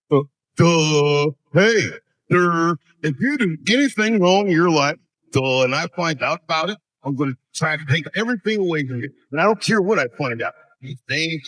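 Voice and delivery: a lightly put-on dim-witted bully voice with duh fillers; guess-who impression. Comic impersonating a powerful man threatening the audience, dopey. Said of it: "who it is I'm doing".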